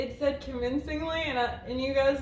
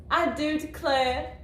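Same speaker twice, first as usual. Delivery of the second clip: slow, put-on Southern Belle drawl; Southern Belle accent; 3 semitones higher, slower than usual. Shown as a demonstration. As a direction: play the Southern Belle, drawing the words out. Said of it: "so I wrote Southern Belle".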